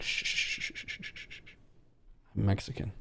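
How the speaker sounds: whispered shushing fading out, then a quiet confession; a friend hiding his roots, hushing then confessing quietly; hushed friend. Retold or imitated. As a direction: shush everyone like a secret, then admit it softly. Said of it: "he's like".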